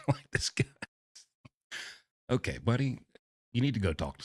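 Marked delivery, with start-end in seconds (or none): 0.1-0.6 laughing through the words. Real, not acted. Host laughing at the father's message. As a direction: chuckle it out in disbelief.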